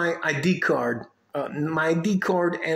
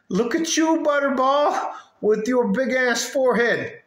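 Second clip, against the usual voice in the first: higher, louder jeer; retold mocking retort; 8 semitones higher, 4 dB louder than usual. Man turning on the woman at the bank, retold mocking retort. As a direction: act out an animated insult, pitched way up. His retort in acted quarrel.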